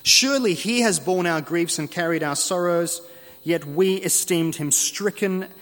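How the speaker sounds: slow, measured Bible reading; solemn scripture reading. Acted. Preacher reading Isaiah's suffering servant to congregation, solemn. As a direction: read it out slowly, phrase by weighted phrase. Reads Isaiah passage aloud.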